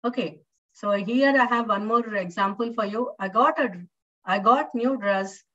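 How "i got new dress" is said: article "a" all but dropped after "got"; barely told "a" before "new dress"; weak form A. Shown as a demonstration. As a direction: run "got a new" together, swallowing the "a". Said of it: "A is not properly told".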